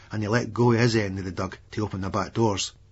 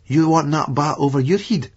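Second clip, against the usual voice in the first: raised, harder voice; menacing threat; 5 semitones higher, 5 dB louder than usual. Retold or imitated. Narrator threatening a troublemaker, menacing raised voice. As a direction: lean in and threaten him with the bat.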